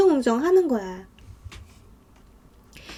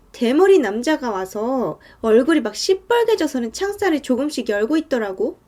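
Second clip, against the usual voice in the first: ordinary talk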